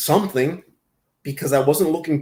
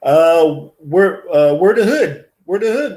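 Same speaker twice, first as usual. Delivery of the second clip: calling out; 5 dB louder than usual. Acted. Calling out to a chatter.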